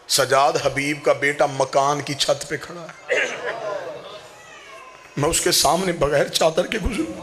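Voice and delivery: mournful preaching, telling Zainab's story to mourners; majlis recital. Acted. Zakir recounting Karbala grief to mourners, mournful preaching.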